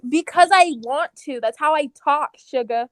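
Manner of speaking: Southern mom talking back. Acted. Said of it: "like, a Southern mom".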